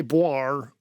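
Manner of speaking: brass noise mimicked by mouth; imitated brass sound. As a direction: toss in a spoken brass blare. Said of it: "it sounds like boir".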